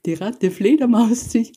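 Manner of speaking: high, gleeful chant; excited bats' cry. A narrator's reading. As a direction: sing it out like a playground taunt. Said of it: "riefen alle Fledermäuse".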